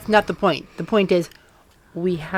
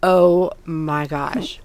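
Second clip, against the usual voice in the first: drawn-out, lower-pitched stunned reaction; 4 semitones lower, much slower than usual. Retold or imitated. Retelling her jaw-dropped reaction, stunned. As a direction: stretch it out slowly in disbelief. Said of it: "my mouth was hanging open".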